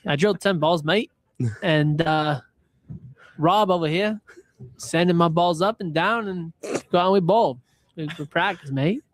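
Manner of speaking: a weak, hammed-up Australian accent; a clumsy Aussie bloke impression, Australian accent barely there; mock Australian accent, half-hearted; bad Australian accent. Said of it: "Could be the worst Australian accent I've ever heard".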